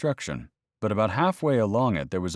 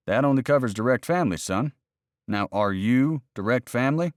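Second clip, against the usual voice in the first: condescending warden; 5 semitones higher than usual. Acted. Narrator voices the game warden.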